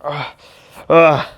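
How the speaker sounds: mock groan of pain. Reviewer acting out Iron Man burning up, mock pained groan. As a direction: imitate a burned hero groaning. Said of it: "he's burning up a little bit".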